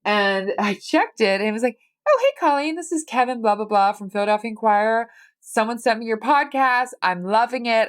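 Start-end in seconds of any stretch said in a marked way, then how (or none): 2.1-7.9 higher, friendly caller imitation; upbeat voicemail greeting. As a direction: act out an enthusiastic voicemail. Acts out an enthusiastic voicemail from journalist.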